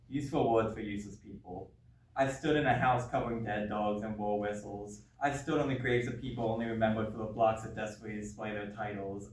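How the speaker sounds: spoken-word poem, measured and driving; slam-poet delivery, easing off at the close; poetry recital. Acted. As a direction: recite it in steady rhythmic phrases.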